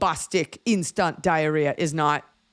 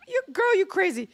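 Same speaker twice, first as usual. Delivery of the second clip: put-on Jamaican accent. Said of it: "And she was like".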